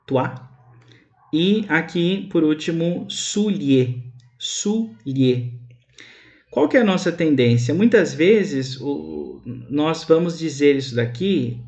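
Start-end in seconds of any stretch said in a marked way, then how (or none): 3.1-5.5 soulier in two syllables, su-lie; Creole soulier. Shown as a demonstration. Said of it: "nesse último exemplo". (soulier em duas sílabas)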